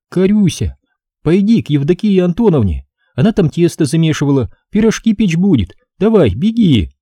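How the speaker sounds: high, lilting woman's voice; coaxing a child. A narrator's reading. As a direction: send the little one off kindly, pitched high. Woman coaxes small girl away.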